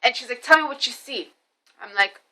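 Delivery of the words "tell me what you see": forceful. Retold or imitated. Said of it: "This woman is forceful".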